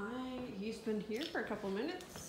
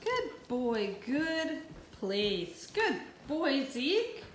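high, loud sing-song praise; squeaky praising a dog; 3 semitones higher, 7 dB louder, much slower than usual. Real, not acted. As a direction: cheer the dog on brightly.

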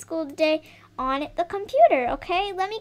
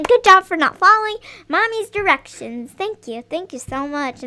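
mock praise, loud on the first line; sarcastic mom scolding the doll; 6 dB louder than usual. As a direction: say it as if praising, clearly meaning the opposite. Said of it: "that is really good sarcasm".

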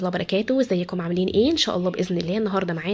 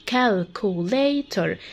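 كالكوليتر said slowly, in four separate syllables; split into syllables. Shown as a demonstration. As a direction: break كالكوليتر into its four beats. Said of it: "قسمها لفور سيلابلز".

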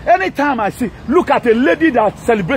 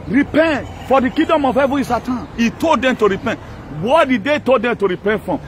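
wrathful prophet; 3 semitones higher than usual. Acted. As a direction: thunder it out like a street prophet. Preaches repentance like a prophet.

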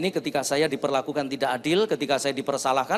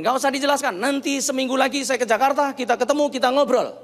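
mildly heated, higher-pitched brush-off; imitating a scolding leader, moderately raised voice; angry boss; 7 semitones higher, 4 dB louder than usual. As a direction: cut them off like an irritated boss. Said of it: "pemimpin saya ini marah-marah".

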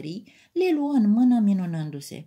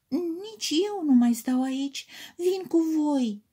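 determined; 8 semitones higher than usual. A narrator's reading. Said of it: "vorbi hotărâtă".

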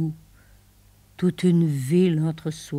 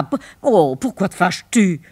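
normal talking voice

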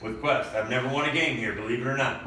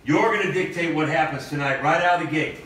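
pep talk; 3 semitones higher than usual. Acted. Coach fires up team.

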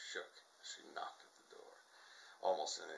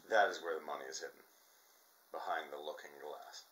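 excited realisation; 2 semitones lower, 7 dB louder than usual. A narrator's reading. Nora thinks excitedly.

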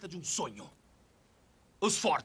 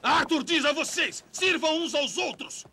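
mocking; 7 semitones higher than usual. Mocking Arthur's creed.

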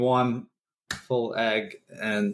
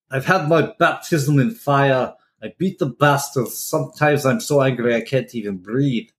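bad Russian accent. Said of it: "bad Russian accent".

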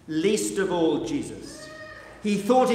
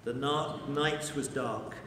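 hushed sorrow; 5 semitones lower, 9 dB quieter than usual. A narrator's reading. Narration of grief.

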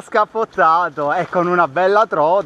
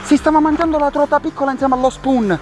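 shaky, breathless panic, much higher; trembling with excitement; 8 semitones higher than usual. Real, not acted. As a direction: voice shaking over a big fish. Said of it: "sto tremando!". (tremante per l'emozione)

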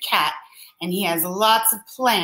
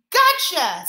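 higher, louder triumphant "Gotcha"; triumphant cry; 8 semitones higher, 4 dB louder than usual. Acted. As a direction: pounce on the word like catching a thief. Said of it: "Splat cried".

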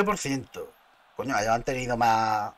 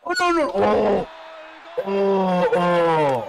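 dismayed cry; 7 semitones higher, 4 dB louder, much slower than usual. Real, not acted. Dismay at a play in game.

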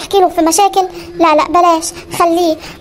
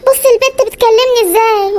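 offended gasp; 3 semitones higher than usual. Acted. Mother-in-law offended by bride.

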